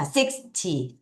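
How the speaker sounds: sixty with strong SIX, weak ty; SIX-ty, light short ending; stress on the front. Shown as a demonstration. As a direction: hit SIX, let ty drop short. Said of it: "앞을 강하게".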